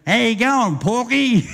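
mock-friendly drunken jeer; cheeky taunt. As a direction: sing it out to needle the copper.

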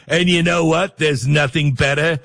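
light impression of a boastful politician; Donald Trump. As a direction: lightly mimic his bragging sales pitch. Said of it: "every time Trump says".

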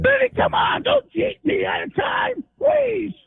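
hoarse shouted begging; pleading yell. Real, not acted. Caller yelling at the host not to cut his time.

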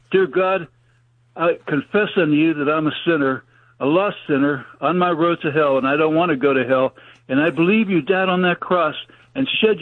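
measured sinner's prayer in short phrases; earnest prayer, pausing for repetition; led prayer. Real, not acted. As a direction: lead them through the prayer, phrase by phrase. Leads listeners in a prayer.

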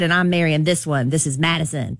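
a hint of a laid-back rapper voice; lightly imitating a famous rapper; a rapper's voice. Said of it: "That's my Weezy and voice".

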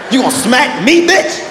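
hammed-up child sob-shout; crying kid tantrum. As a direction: wail like a smacked, hurt little boy. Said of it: "I was emotional".

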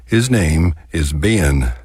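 Ben drawn out into two syllables; Texas diphthong. Retold or imitated. Quoting a proud mother's letter, two-syllable Ben. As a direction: stretch Ben slowly, Texas style. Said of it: "convert one-syllable words to two-syllable words".

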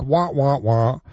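lightly imitated cartoon trombone wah; Peanuts-like wah. Host describing the prank's looping sound, Peanuts-like wah. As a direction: mimic a repeating wah-wah sound. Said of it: "causing a Peanuts-like".

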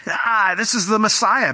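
high blurted cry; a touch of a demonic outburst; blurting demon. Retold or imitated. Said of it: "by blurting out and saying".

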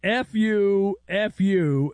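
mock yell, twice; retold yell. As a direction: shout it like the angry official.

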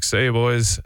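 retold mock farewell, slightly lifted; joking goodbye. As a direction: toss off a jokey goodbye to the lads. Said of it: "like, jokingly".

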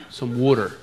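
water in a soft East Coast accent; back-east American vowels. Real, not acted. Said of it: "That's why I talk like that".

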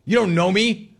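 high, exasperated grumbling; mock-annoyed customer complaint; grumpy. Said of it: "I love that, man".

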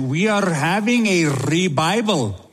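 put-on mild Indian accent, revival said as re-bival; lightly imitated Indian English. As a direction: keep the friend's light Indian lilt going. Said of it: "in a beautiful Indian accent".

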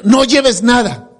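"No lleves nada" lento y marcado; orden recalcada. Retold or imitated. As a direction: recalca despacio "No lleves nada", sin subir el tono. Repite la orden citada al predicar. ("No lleves nada" pausado, como mandato citado)

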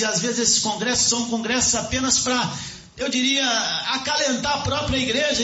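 high-pitched, fervent sermon delivery; impassioned preaching. Real, not acted. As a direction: preach it urgently to the congregation.

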